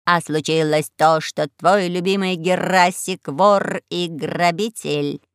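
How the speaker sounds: raspy cawing crow. Acted.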